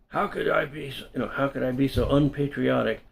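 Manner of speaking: mildly imploring, hurt at the accusation; pleading. Retold or imitated. Dan pleading with the narrator, mild hurt plea. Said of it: "he pleaded".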